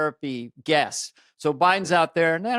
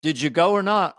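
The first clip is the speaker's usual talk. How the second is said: Liverpool accent. Shown as a demonstration. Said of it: "key to doing a Beatle accent".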